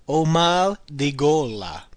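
slow, deliberate repeat of the phrase. Shown as a demonstration. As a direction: repeat it slowly for learners. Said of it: "Again, literally translated as".

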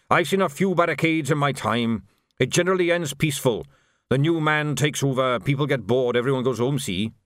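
a veteran playing down the trouble; reassuring old sergeant. Narrator voices Dickens.

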